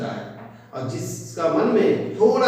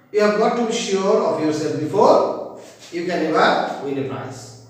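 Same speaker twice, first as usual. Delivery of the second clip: faster poem recital with the rhymes brought out; a bit faster. Shown as a demonstration. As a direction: pick up the pace and lean on the rhyming words. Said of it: "little bit faster with rhyming". (थोड़ा तेज़, तुकबंदी पर ज़ोर देकर)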